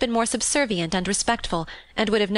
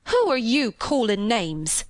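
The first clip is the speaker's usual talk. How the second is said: hot and stung; 2 semitones higher, slower than usual. Acted. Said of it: "Martha stared and looked hot".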